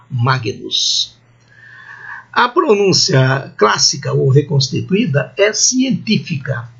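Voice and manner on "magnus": Magnus said lower, with a hard g; "Magnus" with g and n sounded apart; classical Latin pronunciation. Shown as a demonstration. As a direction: say "Magnus" as MAH-gee-noos. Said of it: "igual à pronúncia tradicional".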